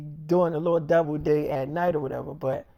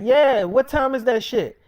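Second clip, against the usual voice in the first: slow, higher and louder demand; pushy Nick; 6 semitones higher, 6 dB louder than usual. Retold or imitated. Nick demanding the time of the shoot, slow and high. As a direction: lean on each word, pitched up. Nick asking about the set.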